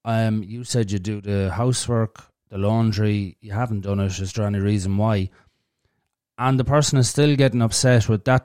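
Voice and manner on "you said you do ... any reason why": simple monotone. Shown as a demonstration. Asking a partner about undone laundry in a monotone. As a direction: ask it evenly, without raising your voice. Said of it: "a simple monotone voice like".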